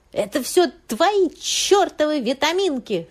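high, loud, slow screech; shrill yell. A narrator's reading. Husband screams at his wife from the toilet, shrill and slow. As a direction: screech the blame between retches. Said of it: "визгливо кричал Горюнов".

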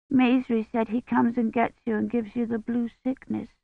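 put-on high, soft child's voice; small child reporting a scary tale; frightened little child. A narrator's reading. Frightened child tells the priest of the wicked man, childlike. Child figure in narrated story.

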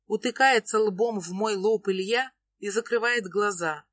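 ordinary delivery, nothing marked

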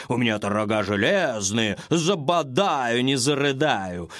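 gruff goat bragging about his iron horns; boastful goat. A narrator's reading. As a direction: growl out the boast like a stubborn goat.

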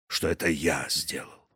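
quiet, breathless; gasping out the words; gasping for air. A narrator's reading. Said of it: "задыхаясь".

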